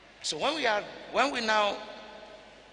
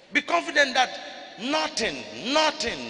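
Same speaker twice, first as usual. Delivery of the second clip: preaching climax; 3 dB louder, slower than usual. Real, not acted.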